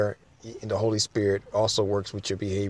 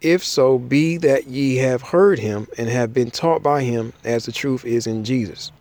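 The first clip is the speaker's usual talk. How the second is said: slightly raised, deliberate recitation; formal Bible read-aloud; scripture reading; 3 semitones higher, 4 dB louder than usual. Acted. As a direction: read the passage out to a congregation, phrase by phrase. Reads scripture aloud to listeners.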